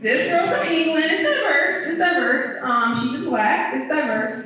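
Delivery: exasperated comeback. Retold or imitated. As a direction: hammer it home that it is diverse, fed up. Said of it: "I was like".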